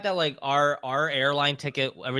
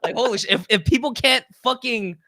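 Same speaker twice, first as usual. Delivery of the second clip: higher, louder, breaking into laughter; laughing rant; 9 semitones higher, 5 dB louder than usual. Real, not acted. Friend to friend, laughing loud disbelief. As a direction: rant while cracking up. Cracking up telling the story.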